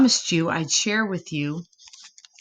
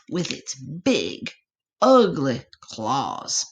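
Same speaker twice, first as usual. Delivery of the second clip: slow scary; 5 semitones lower, slower than usual. Acted. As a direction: lower and slow, drawing out the menace. Scary warning to little possum.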